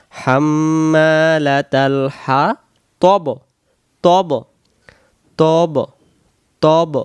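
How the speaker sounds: "হাম্মালাতাল" slow with held nasal m; "তব" as heavy rounded tob with bouncing b; correct recitation. Shown as a demonstration. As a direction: round the vowel in "হাতব", repeat "তব" deliberately. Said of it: "তাহলে আমরা সহি করে বলবো".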